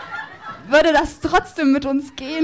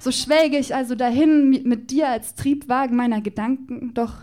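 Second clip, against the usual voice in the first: performed slam poem, rhythmic and playful; poem recitation. Acted. Poet performing a love declaration to Justus Jonas on stage, rhythmic and playful.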